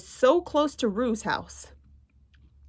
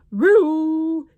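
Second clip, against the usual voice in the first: higher, louder call across the house; 7 semitones higher, 6 dB louder than usual. Acted. Tigger calling for Roo, calling out loud. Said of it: "called Tigger".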